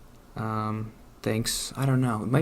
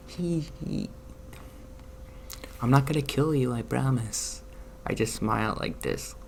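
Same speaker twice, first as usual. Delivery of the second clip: creepy smiling voice; 3 semitones higher than usual. Pretend. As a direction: play a grinning psychopath trying to seem harmless. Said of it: "the one that I'm like".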